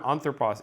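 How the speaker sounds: "anthropos" with the stress on AN; first-syllable stress. Shown as a demonstration. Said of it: "is going to be pronounced".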